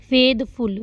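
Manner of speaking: फेथफुल said in two parts, फेथ then फुल; teacher splitting फेथफुल into two separate beats; split syllables. Shown as a demonstration. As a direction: break फेथफुल briefly between फेथ and फुल. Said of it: "तो फेथ लग और फुल लग".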